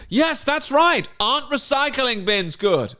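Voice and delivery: slow, drawn-out praise from a parodied teacher; mock teacher. Teacher praising pupil's maths answer, mock teacher voice. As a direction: imitate a teacher encouraging small children slowly. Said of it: "Oh, miss, is the answer".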